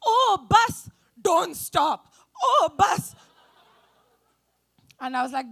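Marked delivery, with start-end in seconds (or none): 0.1-3.1 loud, high hammed-up moans; mock moaning. Comedian mocking a bedroom scene with a name, loud mock moans. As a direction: ham up a lover's moan.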